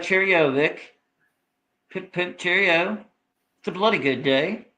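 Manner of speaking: lightly mocked British accent. Imitating how the Brits talk, mock British accent. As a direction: do a chirpy stock British accent. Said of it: "they talk in a very different accent".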